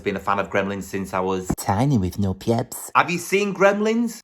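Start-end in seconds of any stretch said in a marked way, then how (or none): 3.0-4.2 higher, mock-excited question; teasing high-pitched ask.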